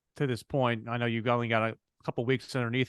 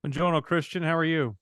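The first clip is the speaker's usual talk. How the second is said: playful Italian greeting, Buongiorno sung out; Italian accent; 4 semitones higher than usual. Pretend. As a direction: greet him like an Italian would. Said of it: "I like your, uh, Italian accent".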